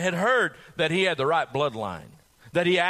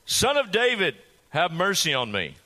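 cried out. Acted. Blind beggar cries out to Jesus, raised pleading call. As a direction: beg Jesus to notice him. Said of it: "he cried out all the more".

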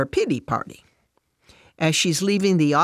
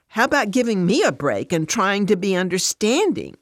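higher-pitched, testy comeback; irritated retort; 5 semitones higher, 3 dB louder than usual. Acted. Fran snapping back at Alice, irritated. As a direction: throw it back, stressing the word "me".

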